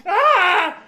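high, loud yelp of alarm; mock alarmed shout at the kids. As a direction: shriek like you just saw ink on the walls. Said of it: "And I'm like".

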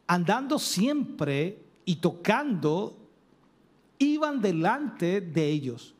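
slow, measured Bible reading; scripture reading. Acted. Preacher reading Joshua chapter six to the congregation, slow and solemn. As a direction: read the verses slowly and solemnly. Reads scripture passage aloud.

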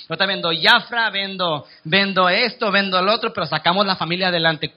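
lightly voiced mom telling the kids not to worry; reassuring mother. Voicing a mother reassuring her children.

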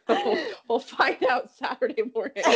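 words breaking up with laughter; laughing. Real, not acted. Co-host answering a request to keep that, laughing. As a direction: struggle to talk through the giggles.

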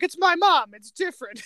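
put-on a kid yelling that his mom is different; defensive shout. Boy yelling at Nicolas Cage that it's his mom, a defensive shout. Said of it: "He's like".

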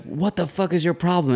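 high, mildly angry mock of the driver. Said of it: "he was like".

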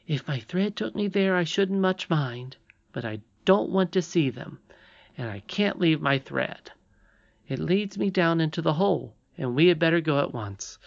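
high, decided character voice; resolute young princess. Acted. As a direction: state it firmly as the little princess. Irene answers Curdie.

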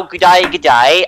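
mock Aussie accent, lightly done; a hint of a bad Australian twang; try-hard Aussie impression. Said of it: "I'm going for an Aussie accent".

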